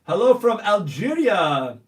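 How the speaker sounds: loud, slow hello; drawn-out greeting. Real, not acted. Reading live chat shout-outs.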